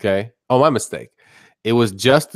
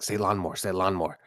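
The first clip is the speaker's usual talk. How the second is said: low, soft urging aside; hushed inner voice; 4 semitones lower, 10 dB quieter, faster than usual. Retold or imitated. Host retells his brain urging him on, hushed and low. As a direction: say it quietly like a nagging thought.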